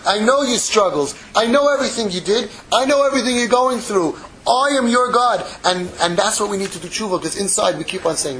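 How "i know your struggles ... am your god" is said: lightly voiced God, building in intensity; God speaking. God assuring every single one of us, lightly voiced, building. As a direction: declare it firmly, growing higher toward the end. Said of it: "He said to every single one of us".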